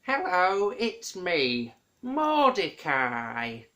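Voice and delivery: loud, cheery hello, slow on the name; a hint of a friendly character greeting; lightly voiced Mordecai. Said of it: "Do you remember him?".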